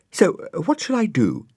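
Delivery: put-on high, loud girlish hello; a little girl calling out while spinning; Florence. A narrator's reading.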